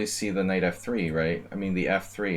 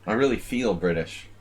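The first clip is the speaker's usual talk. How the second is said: put-on British accent; 3 semitones higher, slower than usual. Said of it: "more British".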